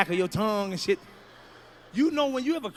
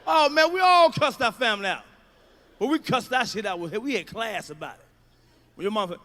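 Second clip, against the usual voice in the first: normal talking voice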